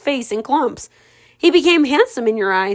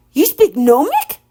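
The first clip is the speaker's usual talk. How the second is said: a lightly squawky parrot voice, pitched up; 4 semitones higher, 4 dB louder than usual. Acted. Parrot asking Ella if she speaks Gnomic. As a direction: chirp it like a talking bird.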